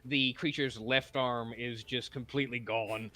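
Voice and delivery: game master narration. Acted. GM narrates arrow scene.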